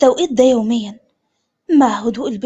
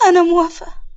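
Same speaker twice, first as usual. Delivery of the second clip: tearful yes; 4 semitones higher than usual. Acted. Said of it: "سندس ببكاء".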